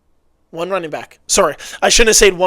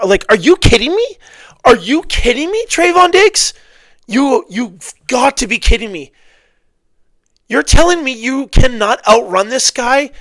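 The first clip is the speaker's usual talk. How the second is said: loud, higher, disbelieving outburst; exasperated rant; 5 semitones higher, 4 dB louder than usual. Real, not acted. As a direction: berate the player on the tape. Coach berating the player on film.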